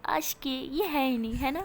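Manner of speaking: slow, bitter half-laugh; bitter laughter. Retold or imitated. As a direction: laugh at her own bad luck. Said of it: "میرا ہنستی اور کہتی".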